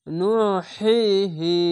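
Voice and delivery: নুহিহি whispered slowly, the হি breathed from the throat; whispered recitation. Shown as a demonstration. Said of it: "এই সাউন্ডটি প্রথমে বের হবে". (ফিসফিস করে ধীরে পড়া)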